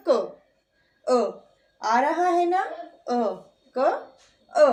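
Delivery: क then its अ split off; vowel sound demo. Shown as a demonstration. Teacher shows students the अ inside क, sounded out separately. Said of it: "अ sound अपने आप आ जाता है".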